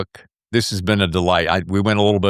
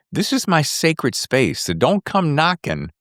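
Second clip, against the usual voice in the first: mock proclamation; 3 semitones higher, slower than usual. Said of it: "it tells everyone around you".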